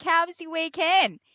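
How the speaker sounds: high bright mock cheer; cheery small talk; chirpy self-quote. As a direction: play it sweetly upbeat.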